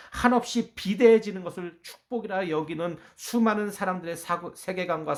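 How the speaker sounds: loud pulpit denunciation; forceful preaching. Acted. Preacher exposing worldly ideas of blessing, forceful and loud. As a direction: press it home loudly to the congregation.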